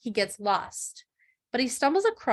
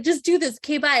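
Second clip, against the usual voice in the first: curt brush-off; 5 semitones higher, 5 dB louder, faster than usual. Retold or imitated. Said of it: "I was like".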